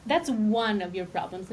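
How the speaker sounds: "one" leaned on as a teasing correction; stress on one. Real, not acted. Wife-style teasing about his pronoun problem, stress on "one". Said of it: "make sure that we mention that one".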